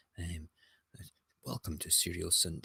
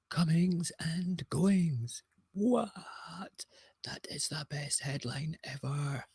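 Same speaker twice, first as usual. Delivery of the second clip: higher, louder gleeful cries over the headline; excited; 10 semitones higher, 5 dB louder, slower than usual. Real, not acted. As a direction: squeal with delight at the pun. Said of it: "I get very excited about things like this".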